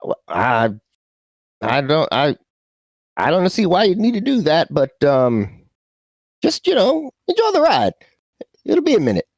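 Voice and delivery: high-pitched, hesitant brush-off; dismissive sub pilot. Acted. Goober tells worried passenger to enjoy the ride, high-pitched dismissive pilot.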